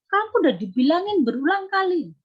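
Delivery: fed-up mother repeating herself; negative scolding. Shown as a demonstration. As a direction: nag with negative energy. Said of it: "menasihati dengan mentransfer energi negatif".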